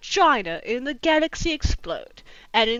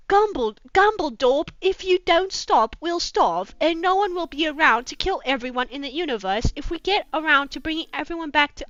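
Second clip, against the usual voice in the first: put-on British accent; 3 semitones higher than usual. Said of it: "I don't know how to do a British accent".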